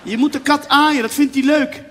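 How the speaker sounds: insistent hostess, slightly put on; mother-in-law. Mother urges guest to pet the cat, lightly voiced mother. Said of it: "Die moeder zei".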